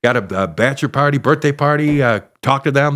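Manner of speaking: mild mock host-announcer read; club announcements. Stalling comic reading club announcements, lightly hosty. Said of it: "I'm doing every announcement I could possibly think of".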